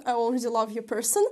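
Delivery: fast, loud and delighted; gushing with quick excitement; excited. Real, not acted. Delighted by tarot card.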